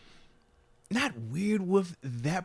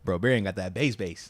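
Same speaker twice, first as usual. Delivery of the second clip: deep voice; 8 semitones lower, 3 dB quieter than usual. Retold or imitated. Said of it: "you sound like Cam Hayward".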